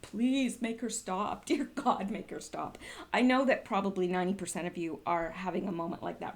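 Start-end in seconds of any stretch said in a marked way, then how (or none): 0.0-2.8 mock pleading. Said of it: "and you're like".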